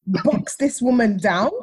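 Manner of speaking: loud, slow emphatic threat; gut urge. Retold or imitated. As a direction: punch out each word slowly. Voices her gut's furious urge.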